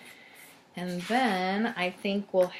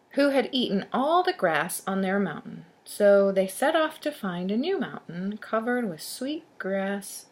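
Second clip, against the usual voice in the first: put-on lively storybook narration to children; storyteller reading aloud; story read-aloud; 2 semitones higher than usual. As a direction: read it out clearly for young listeners. Reads a tale to children.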